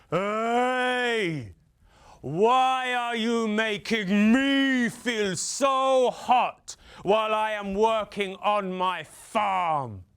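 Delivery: slow, drawn-out farmer's complaint; complaining farmer. Acted. Farmer slowly complaining to the sun about the heat. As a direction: make the sun hear how hot he is.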